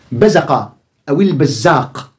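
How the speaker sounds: "بزق" said slowly, letter by letter; careful slow read of the word; slow demo pronunciation. Shown as a demonstration. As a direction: draw out "البزاق" for the class. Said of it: "pronunciation variants shown".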